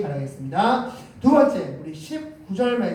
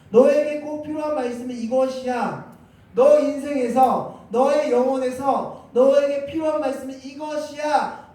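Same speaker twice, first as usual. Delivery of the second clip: raised, high preaching voice; emphatic divine message; 6 semitones higher than usual. Acted. God handing a person the needed word, emphatic message. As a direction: deliver it firmly as a message from God.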